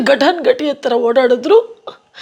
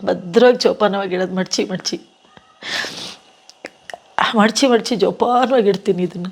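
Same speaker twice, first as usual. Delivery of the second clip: tearful, low voice; 2 semitones lower than usual. Real, not acted. Actress telling interviewer about her husband's saree, low and tearful. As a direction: speak low through tears as if folding something precious. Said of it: "ಅಳ್ಬೇಡಿ madam".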